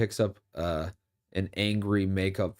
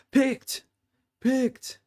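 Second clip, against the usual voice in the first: high, sharp shouts of disbelief; excited yelp. Real, not acted. Streamer yelling at an interception, high-pitched shock. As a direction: yelp it out at the screen.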